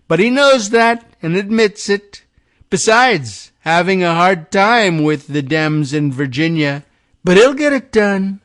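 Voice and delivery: lightly voiced Trump bragging; mock Trump. Host reading Trump's post, mild mock bluster.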